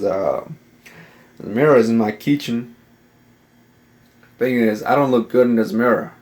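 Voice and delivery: put-on a home-made Southern accent, not quite landing. Vlogger to his camera, in a shaky put-on Southern accent. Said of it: "going for a southern accent".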